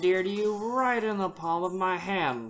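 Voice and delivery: lightly voiced gangster; mobster voice. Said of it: "the mobster voice".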